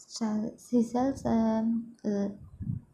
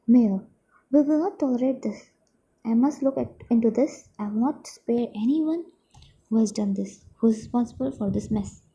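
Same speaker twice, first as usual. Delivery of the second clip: stern mayor vow. Acted. Mayor vows action in play.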